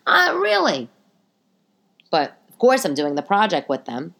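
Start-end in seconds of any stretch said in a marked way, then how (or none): 0.1-0.9 sarcastic really. Real, not acted. Sarcastic aside.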